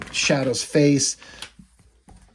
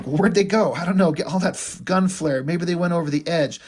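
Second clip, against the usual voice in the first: mob guys; 4 semitones higher than usual. Retold or imitated. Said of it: "And they're like".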